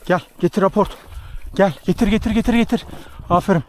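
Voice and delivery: eager coaxing call to a dog; talking to a dog. Real, not acted. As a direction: urge the dog to bring it back. Urging hunting dog to fetch.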